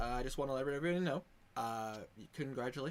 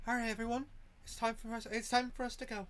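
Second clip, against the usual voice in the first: higher, gently rallying character voice; high-voiced character; 9 semitones higher, faster than usual. Game master's character tells everyone it's time to go, high-voiced. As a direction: gather the group in a high voice. GM voices Alosa leading departure.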